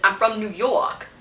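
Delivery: lightly imitated, hammy New York accent; stereotypical New York accent. Reviewer mimicking the audiobook narrator's New York accent. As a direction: put on a bit of a cliché New York accent. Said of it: "most stereotypical New York accent you could".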